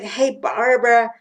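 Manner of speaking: lightly imitated Ghanaian accent; Ghanaian friend's accent. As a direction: quote your friend with a hint of Ghanaian accent. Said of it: "she says it in her accent".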